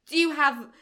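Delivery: attempted French. Critic imitating actress at the supermarket, halting attempted French. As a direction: imitate someone trying out French, lightly put on. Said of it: "she's trying to speak French".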